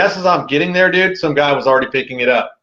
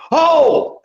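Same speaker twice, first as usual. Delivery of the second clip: high, retold gasp of horror; drawn-out "oh" of alarm; shocked cry; 13 semitones higher than usual. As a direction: cry out as it happens. Retold shock as bike flies off.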